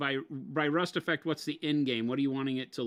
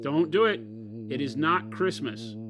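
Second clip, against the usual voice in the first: scolding; 4 dB louder than usual. Pretend. Mock scolding about Christmas early.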